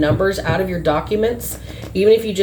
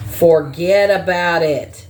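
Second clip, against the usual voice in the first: put-on Boston accent; 2 semitones lower, slower than usual. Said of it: "Sounding like they're, like, from Boston".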